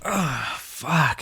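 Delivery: long sigh of relief turning into a swear; relieved groan. Acted. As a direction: groan out a drawn curse. Relief at standing up again.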